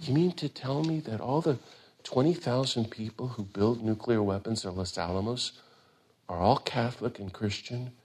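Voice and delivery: calmly ask, not accusing. Retold or imitated. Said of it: "So Thich Nhat Hanh would say".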